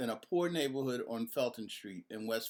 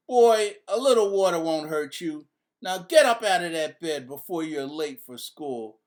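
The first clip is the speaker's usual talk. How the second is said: firm mom; 4 semitones higher, 8 dB louder than usual. A narrator's reading. Mother scolding son.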